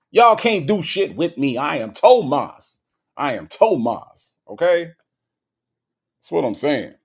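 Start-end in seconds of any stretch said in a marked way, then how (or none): 0.1-4.4 swaggering rapper declaration; defiant rapper boast. Retold or imitated. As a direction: throw it at the crowd like a rapper claiming his name. Tomas boasting, louder repeat.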